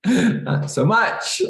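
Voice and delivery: laughing. Real, not acted. Laughing at his own joke.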